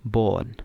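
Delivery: बॉर्न with a long open aw, like born; correct pronunciation. Shown as a demonstration. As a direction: say बॉर्न with a clear aw sound. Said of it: "लेकिन ये क्या है". (बॉर्न सही उच्चारण, ऑ की आवाज़ के साथ)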